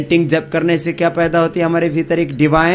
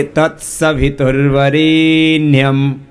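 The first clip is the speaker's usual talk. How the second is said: slow, louder chanted "तत्सवितुर्वरेण्यम"; 2 semitones lower, much slower than usual. Shown as a demonstration. Teacher asks students to chant loudly. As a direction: project the line to the whole class. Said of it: "जोर से बोलिए".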